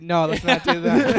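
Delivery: mom voice. Retold or imitated. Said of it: "your mom that said".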